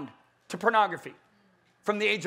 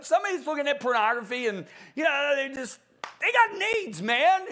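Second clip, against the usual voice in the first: mocking caller; 3 semitones higher than usual. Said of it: "He got really mad".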